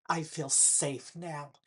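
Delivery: dry, slow sarcasm; sarcastic. Real, not acted. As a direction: say it with heavy sarcasm, slowly. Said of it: "and I am being sarcastic".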